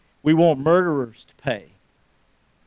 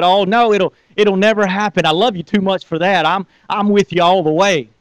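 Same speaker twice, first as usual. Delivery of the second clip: eager protest; 3 semitones higher than usual. Acted. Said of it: "You can just hear this courage".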